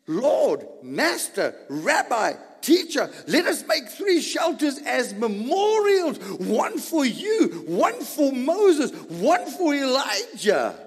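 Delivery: blurting out. Acted. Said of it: "he just blurted out these things".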